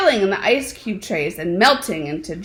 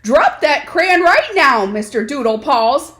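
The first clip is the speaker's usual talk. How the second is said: louder, higher stern mother's order; stern command; 4 semitones higher, 4 dB louder than usual. Acted. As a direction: snap the order at the naughty son. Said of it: "commanded Mama June Buck Jones".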